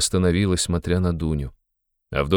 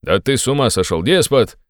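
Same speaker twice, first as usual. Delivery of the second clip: higher, indignant bellow peaking at the end; roaring; 6 semitones higher, 4 dB louder than usual. A narrator's reading. Friend rebukes the sick man's ultimatum, roaring. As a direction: roar it, louder on the last word. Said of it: "заревел Разумихин".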